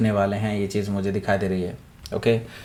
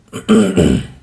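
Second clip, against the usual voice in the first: throat clear; 4 semitones lower, 7 dB louder than usual. Real, not acted. Reader mentions bad throat earlier.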